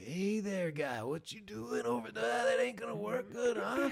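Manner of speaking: doing friend Cy in broad Maine; Cy's Maine accent. Retold or imitated. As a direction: needle a buddy in a thick Maine accent. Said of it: "I can try and do it".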